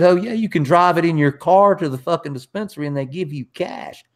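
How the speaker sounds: excited quoted confirmation; retold enthusiasm. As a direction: imitate someone selling an amazing deal. Retold grower's eager confirmation.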